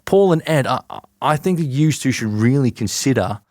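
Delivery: attempted Aussie accent, halting; Nick. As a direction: imitate a colleague in a put-on Aussie accent. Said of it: "not a bad impression of Nick".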